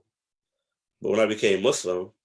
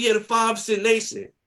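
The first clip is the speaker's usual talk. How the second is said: much higher, innocent and proud; naive younger self; 13 semitones higher, 4 dB louder than usual. Retold or imitated. Telling her he's with the Five Percent, innocent high voice. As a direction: answer brightly like a clueless kid. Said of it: "I said".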